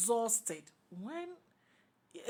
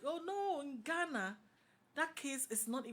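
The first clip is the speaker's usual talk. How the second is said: higher-pitched mock protest; retold dismissal; 7 semitones higher than usual. Lecturer brushing off a student's legal question, dismissive. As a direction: wave it away in a high voice.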